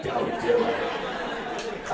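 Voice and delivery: very slow, unvoiced rasping growl; Harvey Fierstein. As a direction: drag it out in a celebrity's croak. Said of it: "Harvey Firestein's in the back".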